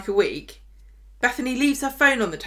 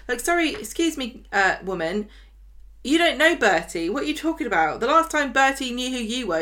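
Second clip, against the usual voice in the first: indignant; 5 semitones higher than usual. Real, not acted. Indignant retort at Bethany.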